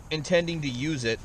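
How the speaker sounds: hiccuping between words; hiccups. Real, not acted. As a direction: talk through the hiccups. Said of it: "I have the hiccups".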